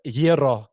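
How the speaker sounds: "Hierro" said as YEE-ro; Greek-style gyro. Retold or imitated. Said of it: "I know how to pronounce it".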